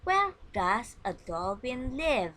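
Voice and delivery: model question. Shown as a demonstration. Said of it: "This is for the example".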